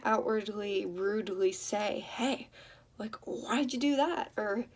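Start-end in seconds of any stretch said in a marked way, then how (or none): 2.0-4.3 higher-pitched, mildly rude challenge. Shown as a demonstration. Speaker showing how not to question a partner, mildly rude. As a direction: demonstrate an accusing, disrespectful question. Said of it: "you can't say it in that tone".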